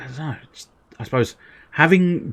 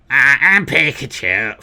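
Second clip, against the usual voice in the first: a hint of Pikachu; 4 semitones higher, 4 dB louder than usual.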